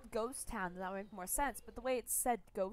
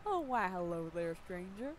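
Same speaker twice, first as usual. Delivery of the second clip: lightly voiced folksy fisherman; friendly fisherman; 3 semitones lower than usual. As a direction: greet a stranger as the fisherman.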